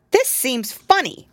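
high, puzzled little kitten voice; a small kitten, wary and curious. Acted. Tom Kitten speaks in story.

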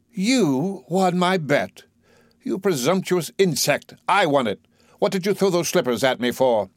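high, incredulous indignation; outraged superiority; indignant. Acted. Higgins indignant at Eliza.

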